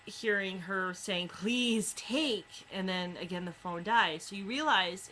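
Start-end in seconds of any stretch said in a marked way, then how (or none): 1.3-2.7 higher, strained plea; a hint of a desperate caller; frantic plea. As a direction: beg down a dying phone line. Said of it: "what she's trying to say is".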